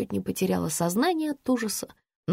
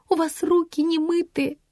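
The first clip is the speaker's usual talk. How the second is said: squeaky; 9 semitones higher than usual. A narrator's reading. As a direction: squeak it out much higher. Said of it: "пропищала я".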